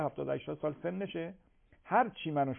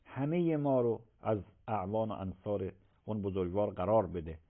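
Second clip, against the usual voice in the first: prayer; 4 semitones lower than usual. Real, not acted. Leads closing supplication.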